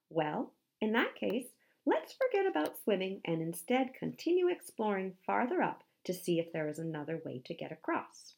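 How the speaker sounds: put-on keen young explorer; Dwayne the polar bear, eager. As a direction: propose it brightly and eagerly.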